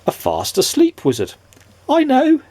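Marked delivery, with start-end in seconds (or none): 1.9-2.4 giggled. A narrator's reading. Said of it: "giggled Mister Mischief".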